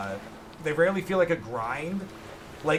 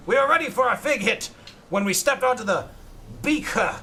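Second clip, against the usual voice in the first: hammy pirate captain, extra h sounds; 4 semitones higher than usual. Acted. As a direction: read like a boastful pirate. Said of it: "H's are just pronounced that way".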